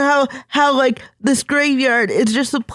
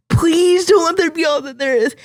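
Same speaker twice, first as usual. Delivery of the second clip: crying plea; 3 semitones higher than usual. Retold or imitated. Remembered despairing prayer, crying heard.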